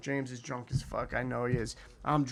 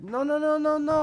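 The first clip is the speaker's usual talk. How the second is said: high, louder rapid nos; driver's insistent no; 12 semitones higher, 7 dB louder than usual. Retold or imitated. Taxi driver waving off passenger's refusal, high insistent. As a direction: brush off the objection eagerly.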